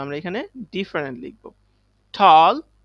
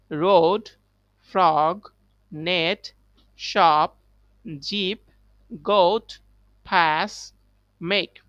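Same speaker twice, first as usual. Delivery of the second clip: repeat after me; 3 dB louder, much slower than usual. Shown as a demonstration. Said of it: "আমার সাথে সবাই repeat করবে".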